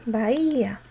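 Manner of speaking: BAHÍA with the I held long; stressed I. Shown as a demonstration. Teacher marking the accent, stressed I in Bahía. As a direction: hold the I in "Bahía". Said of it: "La tildamos también esa cerrada".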